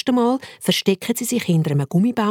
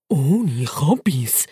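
very slow, drawn-out, lower; lower slow catchphrase; 3 semitones lower, much slower than usual. Acted. Bacon to Turbo, slow deadpan catchphrase. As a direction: drag out the motto deadpan. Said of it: "sagt der Bacon".

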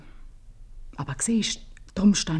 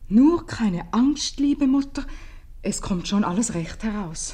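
slow, loud and higher, each word spelled out; reading the note aloud; 5 semitones higher, 6 dB louder than usual. Acted. Mother reads her daughter's note aloud to Gabriel, slow and loud. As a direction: read the note out proudly, slowly.

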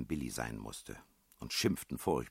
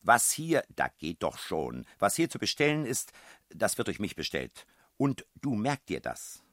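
put-on high, shrill-edged shouting at the child; landlady scolding the little girl; angry scolding; 7 semitones higher, 7 dB louder than usual. A narrator's reading. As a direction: scold her all the way out the door.

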